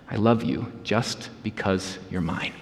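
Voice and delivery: low, soft fatherly murmur, still voiced; tender near-whisper. A narrator's reading. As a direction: say it softly and low, close to a child's ear. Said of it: "whispered into his little squirrel ear".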